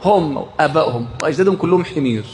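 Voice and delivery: ordinary talk, nothing marked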